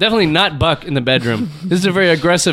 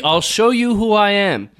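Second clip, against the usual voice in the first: slow, menacing reveal; lightly voiced villain threat; unhinged menace; 3 semitones higher, slower than usual. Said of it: "It's a big reveal".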